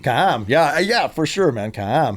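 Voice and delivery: mock Vancouverite with stretched vowels; exaggerated Vancouver accent. Shown as a demonstration. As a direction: add a syllable to CAM, Vancouver-style. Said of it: "We have vowel syllables where the Cam".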